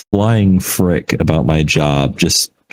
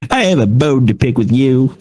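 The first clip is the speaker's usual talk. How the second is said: mock grumpy voice, pitched up; grumpy customer; 6 semitones higher than usual. Customer confronting the insurance agent, mock grumpy. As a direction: imitate a grouch starting a complaint. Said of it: "he sounded so grumpy".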